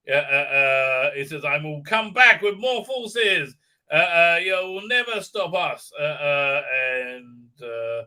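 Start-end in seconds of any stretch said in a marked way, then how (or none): 1.4-5.9 lightly voiced, slow villain vow; mock villain threat. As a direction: declare a hammed-up threat, slowly.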